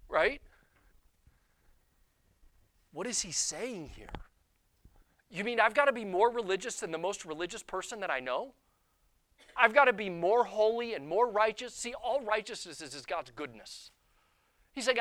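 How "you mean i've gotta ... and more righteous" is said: incredulous. Acted. Voicing a listener's disbelief at demand.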